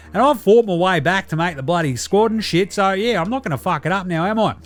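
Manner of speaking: rowdy Olympian mate sending in a voice report; Delly character voice. Acted. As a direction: play a cheeky Aussie athlete phoning in from Paris. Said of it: "very special report from Delly".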